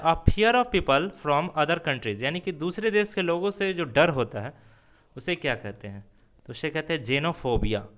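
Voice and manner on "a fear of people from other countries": slow dictation. Shown as a demonstration. Teacher reads definition aloud.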